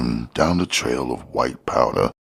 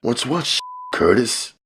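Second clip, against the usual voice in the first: a much higher voice for the smiling fat man; George's voice; 12 semitones higher than usual. A narrator's reading. The dealer sizing up Curtis, high sly hustler voice.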